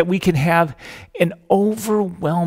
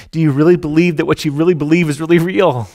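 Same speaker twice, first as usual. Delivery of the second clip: rousing challenge; 7 dB louder, faster than usual. Acted. Preacher challenges congregation.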